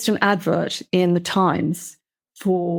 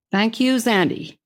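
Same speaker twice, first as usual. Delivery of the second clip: lightly voiced Southern boss, higher; Southern accent; 4 semitones higher than usual. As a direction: thank her with a Southern twang. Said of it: "He came out very Southern".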